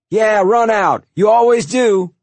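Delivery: high, loud angry taunt; full-voiced jeering shout; yelled. A narrator's reading. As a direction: yell it after someone leaving. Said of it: "Walter yelled at George".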